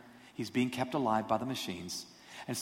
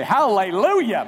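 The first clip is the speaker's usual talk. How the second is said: joyful shout; 7 semitones higher, 10 dB louder, slower than usual. Pretend. Imagined patient jumping up praising.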